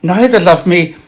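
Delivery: slow, measured reading of a sonnet; poem recital. Acted. Reciting a nineteenth-century love sonnet aloud, slow and measured. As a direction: linger on each line with long pauses.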